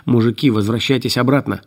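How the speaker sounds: приглушённый хрип сквозь респиратор; хрипеть в маску респиратора; хрип через респиратор. Acted. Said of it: "прохрипел через респиратор". (хриплый голос из-под респиратора)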